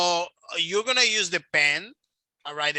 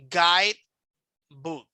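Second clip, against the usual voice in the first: teacher's demo of GUIDE ... book; stress on GUIDE; 5 dB louder than usual. Shown as a demonstration. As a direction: punch "guide", pause, let "book" fall away. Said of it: "where you make more emphasis in the word".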